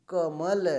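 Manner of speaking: कमल said clearly through the mouth only, no nasal sound; demonstrating a non-nasal word; oral demo word. Shown as a demonstration. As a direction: pronounce कमल crisply, with no nasal colour. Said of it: "देखिए मुंह से केवल हवा निकल रही है ना".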